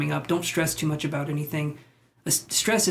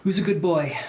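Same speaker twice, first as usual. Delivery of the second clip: pet talk. Real, not acted. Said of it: "that's how I cheer myself up".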